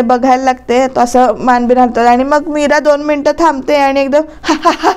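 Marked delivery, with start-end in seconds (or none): 4.4-4.9 a staged ha-ha-ha laugh, slightly higher; mock dramatic laughter; theatrical laugh. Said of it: "हा करून हसायला लागते". (नाटकी खोटं हसणं)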